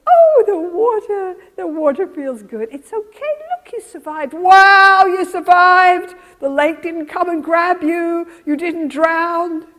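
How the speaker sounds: high, loud wonder; delighted mother. Acted. Mother celebrating toddler's toe in the lake, delighted. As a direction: marvel and cheer for a small child. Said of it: "gradually the mother says".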